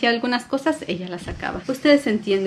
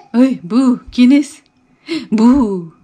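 high, loud peekaboo call; spring the surprise on the baby; playful peekaboo; 4 semitones higher, 8 dB louder, much slower than usual. Acted. Mom playing peekaboo with baby, high excited call.

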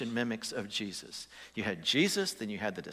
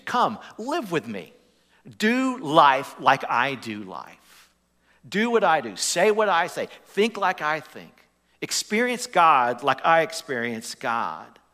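lightly voiced Jesus, earnest and raised, slowing; Jesus inviting; 4 semitones higher, 6 dB louder, slower than usual. Preacher voicing Jesus inviting disciples, earnest. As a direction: plead it as a gentle teacher calling.

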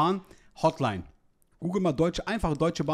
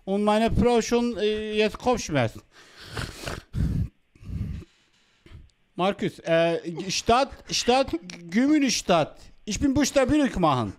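put-on Vietnamese accent in German. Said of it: "Hotel muss man als Vietnamese anrufen".

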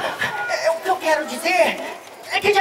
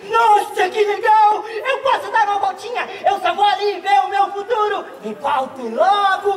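put-on excited kid; 3 semitones higher than usual. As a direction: gush over the machine. Kid excited by time machine.

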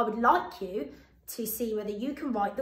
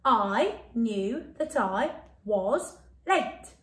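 slow, deliberate sentence; much slower than usual. Shown as a demonstration. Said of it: "Bit quicker this time".

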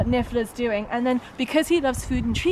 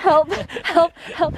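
calling for help; 5 semitones higher, 5 dB louder than usual. Real, not acted. Sliding, cold, calling for help.

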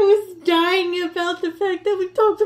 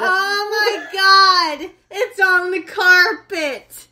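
laughing; 3 semitones higher, 5 dB louder, slower than usual. Real, not acted. Liquor spilled, laughing.

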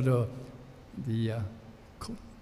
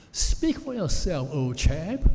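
posh English heckler mocking the preacher; polished English accent. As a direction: toss it off like a posh English gent. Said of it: "that polished English accent said".

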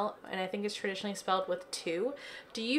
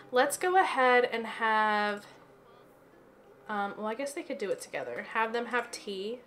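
talking with hiccups; pausing between hiccups. Real, not acted. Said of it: "I keep pausing 'cause I have the hiccups".

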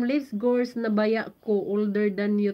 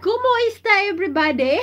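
much higher and louder, laughing as she says it; excited intro greeting; 8 semitones higher, 5 dB louder, much faster than usual. Shown as a demonstration. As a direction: belt it out like opening a live show. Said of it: "I need to speak that one in my intro".

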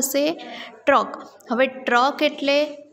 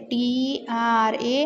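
slow letter-by-letter spelling; each letter given its own space; much slower than usual. Shown as a demonstration. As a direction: spell it out slowly for a class. Teacher spells word for class.

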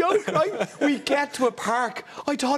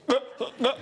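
retching gasp; 3 semitones higher, 4 dB quieter than usual. Retold or imitated. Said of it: "and you literally go".

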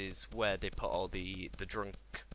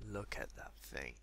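much lower and softer; hushed awe; 10 semitones lower, 12 dB quieter than usual. Real, not acted. Gamer gazing at the piggy, hushed awe. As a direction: breathe it out low in wonder. Awed at the pink pig.

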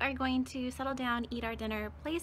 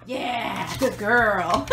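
praising the dog; 12 dB louder, much slower than usual. Real, not acted. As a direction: praise the dog warmly and loudly.

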